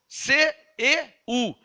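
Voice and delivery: "C E U" letter by letter; spelled out. Shown as a demonstration. Preacher spelling today's Bible word, letter by letter "C E U". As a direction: slowly spell "C E U", each letter apart. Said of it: "A nossa Bíblia fala céu".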